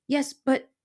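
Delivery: high little hesitant voice; nervous mouse. Acted. Mouse questioning the porcupine, high and nervous. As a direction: start to object and falter.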